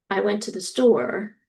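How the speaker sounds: statement with no rise on "store"; plain statement, no lift at the end on "store"; flat or falling intonation. Shown as a demonstration. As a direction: state it, letting "store" stay level or settle. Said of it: "either a flat or a falling intonation".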